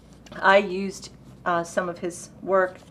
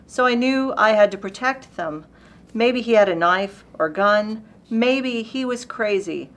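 lightly dramatic narrative recitation; poetry reading; 3 semitones higher, 3 dB louder than usual. Acted. Reading Alexie's poem about a parking dispute, storytelling recitation. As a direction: tell the poem as an unfolding incident.

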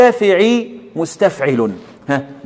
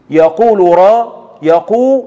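يقول را split slowly and said louder; slow, louder scansion demo of يقول را; syllable-by-syllable scansion; 2 semitones higher, 5 dB louder, much slower than usual. Shown as a demonstration. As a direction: break the words into metre syllables slowly. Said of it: "هنحط عند كل حرف متحرك شرطة".

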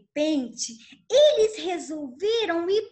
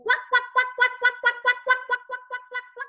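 worried quacking call; 7 semitones higher, faster than usual. Acted. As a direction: call out for the lost ducklings. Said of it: "ficou preocupada e gritou".

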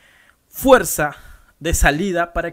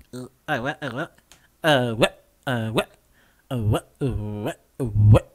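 scratch with intonation; 3 semitones lower than usual. Shown as a demonstration. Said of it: "esa entonación también".

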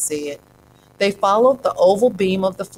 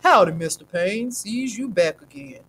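greeting pain; 2 semitones higher than usual. A narrator's reading. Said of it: "all you say when something hurts is".

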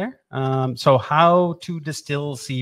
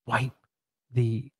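hushed whisper. Acted. Explaining wiper blades in a hush.

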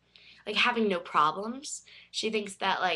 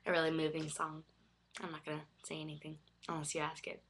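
after crying; 3 semitones lower, 6 dB quieter, faster than usual. Real, not acted. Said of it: "I'm a little teary-eyed right now".

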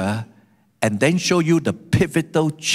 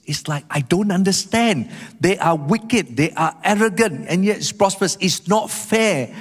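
higher-pitched protest at unfairness, mildly acted; indignant bafflement; 3 semitones higher than usual. Psalmist protesting that the wicked prosper, mildly indignant. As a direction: voice the psalmist's grievance, drawing out the last words. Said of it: "That's how the psalmist felt".

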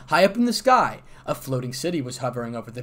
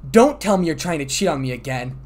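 louder, jealous and threatening; menacing wife; 2 semitones higher, 8 dB louder than usual. A narrator's reading. Hera catching her husband Zeus about to cheat, menacing. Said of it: "The voice held so much malice".

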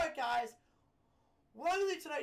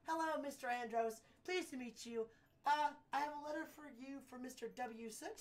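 lightly voiced, eager courier; chipper, deferential errand runner; polite young courier; 2 semitones higher than usual. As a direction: introduce yourself respectfully to a client. Courier greets Mister Andros.

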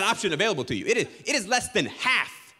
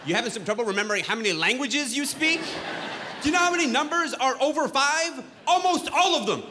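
mocking; 4 semitones higher than usual. Mocking the guy's boast.

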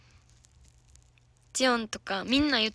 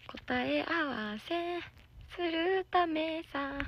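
slow breathy whisper, a little higher; teasing whisper; 6 semitones higher, 6 dB quieter, much slower than usual. Pretend. Idol teasing viewers in a slow, higher whisper. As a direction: lean in and whisper it slowly.

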